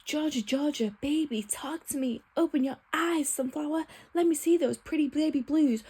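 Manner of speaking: a hint of a cheesy pleading boyfriend; mocking boyfriend. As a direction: lightly parody the over-romantic line. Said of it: "is actually going to say to me".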